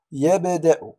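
"يبدأ" with the b bounced, ya-b(e)-da; قلقلة صغرى. Shown as a demonstration. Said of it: "هنا نقلقله". (نبرة مرتدة على باء "يبدأ")

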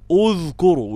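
اذكروا with the lips kept rounded on dh; اذكروا with rounding carried over onto the dh. Shown as a demonstration. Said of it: "ويفضل الشفتين مضمومتين".

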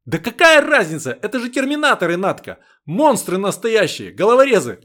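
loud, high, thrilled dread; gleeful horror. Acted. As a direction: relish the scary monsters. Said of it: "с каким-то весёлым ужасом". (с весёлым ужасом)

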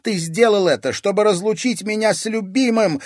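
high, loud hateful yell; hateful cry. Acted. Daughter yelling at her father, full of hate. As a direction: spit the words with hatred. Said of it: "с ненавистью крикнула Дельфина".

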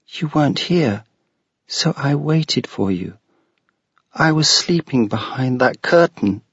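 put-on a small girl explaining simply; little ghost girl. Ghost girl voiced in story.

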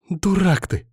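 high tearful wail. A narrator's reading. Alina scolding wounded Bogdan, a high wail. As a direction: wail it out in despair. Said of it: "взвыла Алина".

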